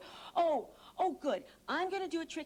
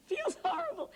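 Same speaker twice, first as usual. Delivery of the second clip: disgusted. Real, not acted. Squishing gooey banana.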